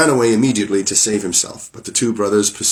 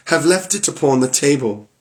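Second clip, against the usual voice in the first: timid wife; 5 semitones higher than usual. Acted. Frightened wife answers Bluebeard.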